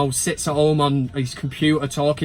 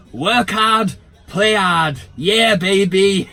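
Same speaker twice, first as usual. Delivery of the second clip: Bootleg's catchphrase; 5 dB louder, much slower than usual. Retold or imitated. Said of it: "He always says".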